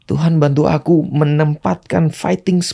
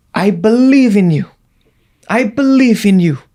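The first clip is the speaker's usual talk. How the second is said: shouted prayer; 5 semitones higher, 4 dB louder than usual. Retold or imitated. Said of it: "Aku teriak seperti itu".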